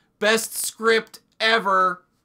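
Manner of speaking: very loud, high, heavily sarcastic exclamation. Calling it the best script ever, very sarcastic. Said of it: "Very sarcastically, I'm saying that".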